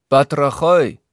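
Batrachoi with stress on the last syllable, -choi, said high and loud; Greek showing off. Retold or imitated. Herr August shows off his Greek to the men, stressing Batrachoi on the last syllable. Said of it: "Die Betonung liegt auf der letzten Silbe".

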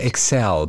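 excel stressed on the second syllable; English verb stress. Shown as a demonstration. Podcaster explains the English verb, ek-SELL. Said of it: "To excel".

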